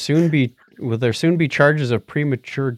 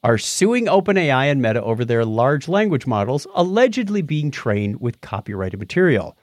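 reading an article aloud; steady reading-out voice; news read. Acted.

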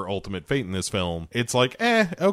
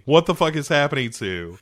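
higher, fast outraged question; mock panicked yell; 5 semitones higher than usual. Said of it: "she's like".

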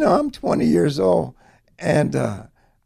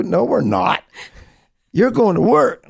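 higher, louder mock scolding; retold screaming; 6 semitones higher, 4 dB louder than usual. Wife orders husband to go to work, mock screaming. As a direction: imitate a wife laying down the law. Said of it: "start screaming at me".

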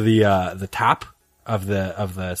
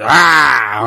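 mock clown yell; 2 semitones higher, 8 dB louder than usual. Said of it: "he'd go all batshit".

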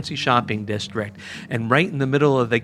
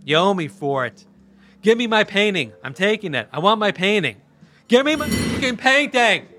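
higher, rising to a mock yell by the end; retold angry scream; 7 semitones higher than usual. Jackie demanding his painting from Jamin, imitated rising angry yell. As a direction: imitate him working himself up into a shriek. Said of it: "he screamed".

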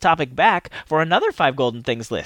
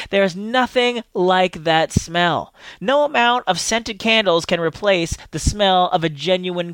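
dreamy, savoring; slower than usual. Acted. Savoring the smell.

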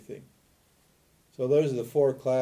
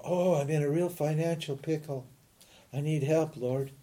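lightly voiced plea, rising higher for the offer; mock bargaining prayer; 3 semitones higher than usual. Teacher imitating someone making business with God, mock pleading. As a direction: strike a deal in a mildly hammed-up prayer. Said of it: "Business, you know, making business with God".

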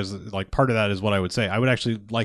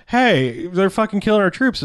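high-pitched indignant imitation; hammed-up righteous complaint; mock outrage; 7 semitones higher, 3 dB louder than usual. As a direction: play an affronted patriot protesting. Acted outrage in political analogy.

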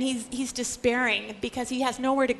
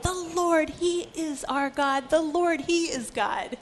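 crying out; 5 semitones higher, slower than usual. Retold or imitated. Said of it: "They fell prostrate and cried".

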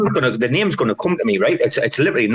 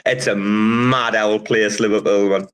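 slow musing; 3 semitones lower, slower than usual. Real, not acted. Musing on Liverpool.

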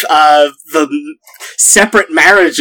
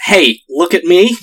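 Russian Mario. Pretend. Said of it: "Russian Mario telling Tom Hanks".

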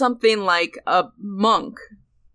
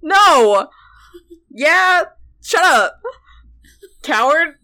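flustered laughing yell; 7 semitones higher, 6 dB louder, much slower than usual. Real, not acted. Flustered outburst at partner.

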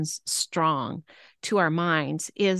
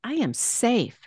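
"safe" raised and drawn out; stress on SAFE; 3 semitones higher than usual. Shown as a demonstration. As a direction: land hard on "safe". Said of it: "the emphasis".

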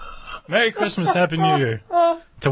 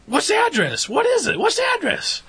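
high, insistent shouted question; mock yelling. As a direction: bark the question again and again. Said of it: "she's, like, yelling at this guy".

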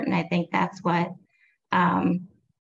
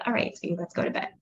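soft bedtime voice; 3 semitones lower, 6 dB quieter, faster than usual. Acted. Parent gently tucking child in.

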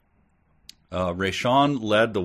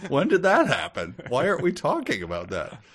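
mock baffled reader; 6 semitones higher than usual.

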